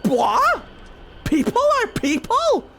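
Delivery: high, loud mocking disbelief on "people"; scornful gods. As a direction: sneer the question at her. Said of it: "the Evan Uris were like".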